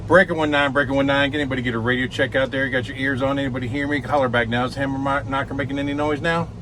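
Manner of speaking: redneck trucker on the CB; trucker CB radio. Pretend. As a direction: call it out like a trucker on channel nineteen. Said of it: "you gotta talk like a redneck".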